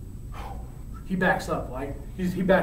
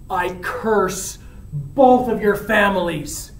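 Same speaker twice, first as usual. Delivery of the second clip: slow, deliberate curse at usual pitch; measured curse; slower than usual. Acted. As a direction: lay out the curse word by word. First paraphrase of dying curse.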